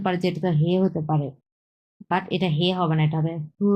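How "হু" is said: হু held high and level; first tone. Shown as a demonstration. Teacher models the first tone for students, level, held হু. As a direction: sustain হু on one even pitch. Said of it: "এরকম".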